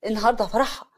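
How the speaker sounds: loud, indignant confrontation; angry father. Acted. Bride's father confronting Hassan at the wedding, angry. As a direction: step in and demand an explanation. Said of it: "أبوها بغضب وقف في النص".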